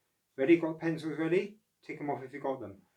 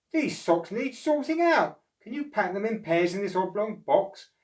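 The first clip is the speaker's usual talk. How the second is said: higher, louder boss voice; Mister O voice; 8 semitones higher, 6 dB louder than usual. Acted. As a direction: instruct Oscar kindly.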